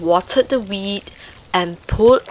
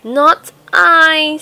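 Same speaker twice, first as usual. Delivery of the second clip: mouse voice; 6 semitones higher, 6 dB louder than usual. A narrator's reading. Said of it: "said the mouse".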